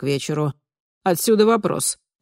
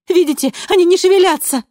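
much higher, louder alarm; panicked; 14 semitones higher, 9 dB louder than usual. A narrator's reading. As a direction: show her, frightened. Panicked at the cage. (в панике, гораздо выше и громче)

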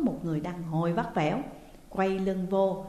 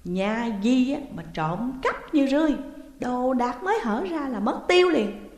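louder, furious scolding of the maid; shrill shrieking accusation; 4 semitones higher, 5 dB louder than usual. A narrator's reading. Landlady screeching at the maid over her missing bag. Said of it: "bà tru tréo nhắm vào Sáu Chi".

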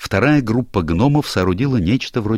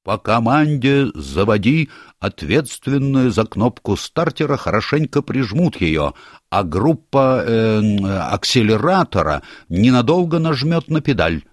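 unsure; 5 semitones higher than usual. Acted. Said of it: "неуверенно разъяснил задачу Ринсмангл".

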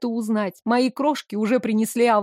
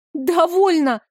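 a sharp, higher exclaimed "Довольно!"; exclamation; 6 semitones higher, 4 dB louder, slower than usual. A narrator's reading. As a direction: cut them off with one loud word. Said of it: "воскликнула я".

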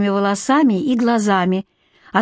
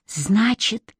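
smiling; much slower than usual. A narrator's reading. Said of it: "улыбаясь, спросила Алекс".

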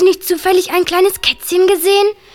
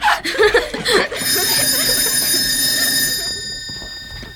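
breathy giggle; 10 semitones higher, 6 dB quieter than usual. Acted. Girls plotting a prank.

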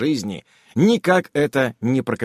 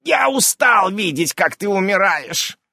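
babbling; 8 semitones higher, 3 dB louder than usual. A narrator's reading. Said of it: "пролепетал гном".

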